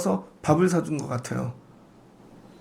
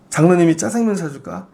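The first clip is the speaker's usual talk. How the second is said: hearty offer; 5 dB louder than usual. Retold or imitated. Elders offering kids jajangmyeon.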